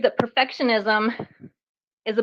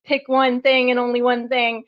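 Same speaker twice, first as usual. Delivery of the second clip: dismissive, raised voice; scornful rant; 2 semitones higher than usual. Retold or imitated. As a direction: scoff at the book.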